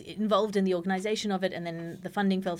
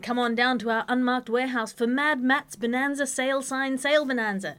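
ad announcer; 5 semitones higher, 3 dB louder than usual. Acted. Mock ad read.

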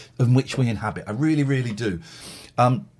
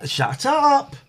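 sharp shout at the dog; 11 semitones higher, 4 dB louder, slower than usual. Real, not acted. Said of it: "Getting on my nerves now".

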